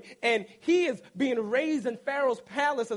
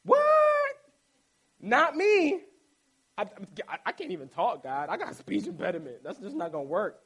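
reluctant Moses; 4 dB louder than usual. Retold or imitated. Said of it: "that's about how he answered".

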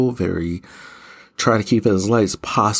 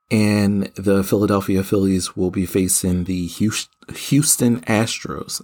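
lisping from tongue ring; tongue ring catching the s sounds; slight lisp. Real, not acted. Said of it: "I apologize for my slight lisp".

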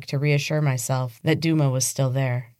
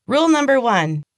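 high, loud unhinged shriek; shrill, out of control; 9 semitones higher, 5 dB louder than usual. Acted. Evelyn announcing the rules to Casey, shrill and wild. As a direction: let the voice crack wild. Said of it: "her voice shrill and out of control".

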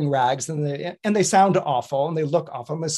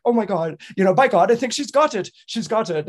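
excited; 6 semitones higher, 5 dB louder than usual. Retold or imitated. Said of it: "he's like".

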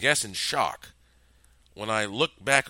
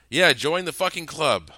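loud, high sarcastic retort; sarcastic snap; 7 semitones higher, 8 dB louder than usual. Acted. Hostage snaps at the killer, loud and sarcastic. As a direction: snap it back with scorn. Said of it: "I snapped sarcastically".

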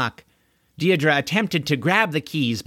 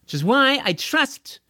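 sarcastic flattery; 8 semitones higher than usual. Acted. Deirdre mock-flatters Corwin.

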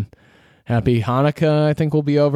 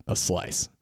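whispered craving; 6 semitones lower, 10 dB quieter than usual. Real, not acted. Craving pizza, trailing off.

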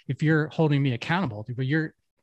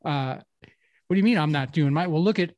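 defensive employee; 3 semitones higher than usual. Retold or imitated. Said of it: "they immediately want to deflect".

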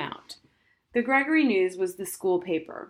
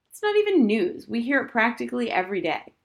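much higher and louder, exasperated; indignant outburst; 5 semitones higher, 5 dB louder than usual. Acted. Girl scoffing at the school paper editorial, higher and louder. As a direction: fling out the complaint.

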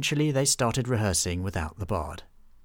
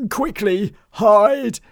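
much higher, louder frantic hiss-free cry; urgent hide; 11 semitones higher, 11 dB louder, much slower than usual. Acted. Bartholomew telling friends to hide, high frantic. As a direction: urge them under the clothes fast.

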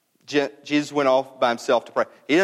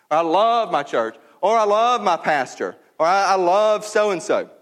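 imitated gushing; 5 semitones higher than usual. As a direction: gush like a devoted fan, lightly parodied. Mimicking churchgoers gushing about favorites.

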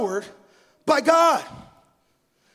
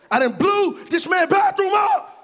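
laughing; 8 semitones higher than usual. Real, not acted. Laughing punchline.

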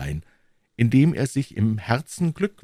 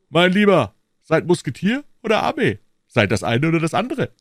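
raised, insistent voice; higher, forceful reproach; exasperated challenge; 9 semitones higher, 6 dB louder than usual. A narrator's reading. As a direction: press a friend to choose. Porthos scolds Aramis, told to choose.

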